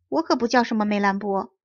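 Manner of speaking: mildly displeased correction; a touch of annoyance. Acted. Puppet corrects the visitor about his name, mildly displeased. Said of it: "匹诺曹不高兴地说".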